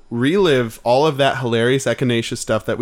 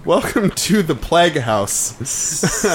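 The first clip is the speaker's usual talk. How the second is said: slow announcer intro; slower than usual. Pretend. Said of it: "our new segment".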